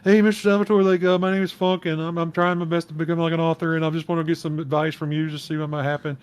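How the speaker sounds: sappy fan letter. Retold or imitated. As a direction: imitate a gushing young fan. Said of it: "this sappy-ass letter".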